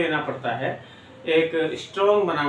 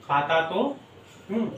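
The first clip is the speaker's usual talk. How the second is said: split slowly; 3 dB quieter than usual. Shown as a demonstration. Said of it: "मैं खाता तो हूँ".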